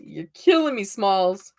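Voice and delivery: a light hint of the film line; movie quote. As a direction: toss off the quote playfully. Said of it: "that's how you can tell I'm a Gen Xer".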